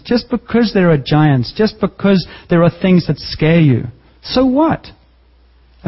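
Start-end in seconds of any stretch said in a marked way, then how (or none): 4.2-4.9 defiant so what. Acted. Challenging the congregation.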